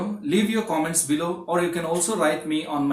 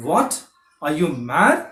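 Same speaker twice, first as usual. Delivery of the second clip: shocked disbelief; 3 dB louder than usual. Shown as a demonstration. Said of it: "You say".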